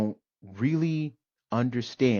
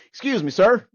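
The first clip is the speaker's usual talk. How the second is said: put-on a raised, higher polite "excuse me" from an older man; old man's polite call; 10 semitones higher, 8 dB louder than usual. Old man tapping his shoulder in line, raised polite call. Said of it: "He says".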